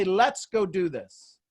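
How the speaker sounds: "Let's" lengthened, the whole line slow; quoted rallying line. Retold or imitated. Coach repeating a mentor's motto, slow and emphatic. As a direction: stretch "Let's" as the key word. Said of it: "He'd say".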